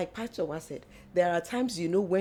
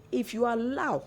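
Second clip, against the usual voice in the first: "allow" lifted higher to underline it; stress on allow; 4 semitones higher than usual. Shown as a demonstration. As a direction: lean on the word "allow". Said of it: "underline allow".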